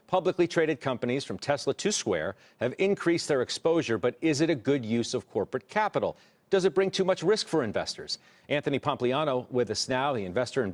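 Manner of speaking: measured anchor introduction; news read. Acted. Anchor introduces tonight's split decision, news read.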